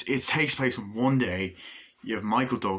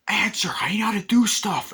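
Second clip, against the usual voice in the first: mock whisper; 13 semitones higher, 6 dB louder than usual. Guy on phone boasting.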